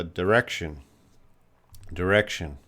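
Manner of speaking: "direction" as duh-REK-shun, carefully repeated; "direction" with reduced vowel. Shown as a demonstration. Teacher giving a student their own pronunciation, "direction" as der-rection. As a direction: model "direction" with a short, unstressed first syllable. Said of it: "I would probably pronounce it".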